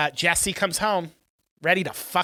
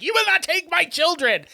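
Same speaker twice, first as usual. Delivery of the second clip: high-pitched, hammed-up mother's rage; imitating an enraged mother; mock furious outburst; 11 semitones higher, 3 dB louder than usual. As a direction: act out losing it, pitched way up. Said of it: "she loses her shit".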